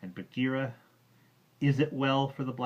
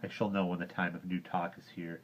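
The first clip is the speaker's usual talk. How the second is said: savagely; 6 dB louder than usual. Acted. Mowgli scolds Bagheera, savage and louder. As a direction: bite the words, fiercely. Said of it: "Mowgli spoke rather savagely".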